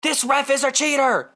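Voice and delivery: whiny ref complaint, imitated; a mild mock rant about the ref; complaining fan. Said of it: "he was complaining about the reffing".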